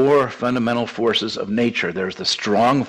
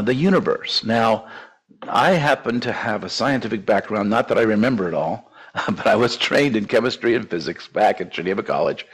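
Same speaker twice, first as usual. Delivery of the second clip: ordinary talk, nothing marked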